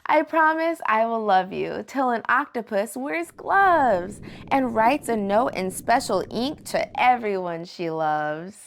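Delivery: lilting, rhyming story narration; picture-book read-aloud. A narrator's reading. Host reads a love promise book to kids, lilting read-aloud. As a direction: read it to children, landing each rhyme.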